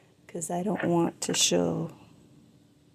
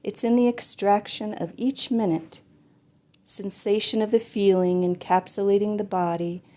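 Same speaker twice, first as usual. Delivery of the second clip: louder, projected poem recital; poetry reading; 7 dB louder than usual. Acted. Poet tries next poem for online listeners, projected poetry reading. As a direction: declaim the poem, pushing out each opening phrase.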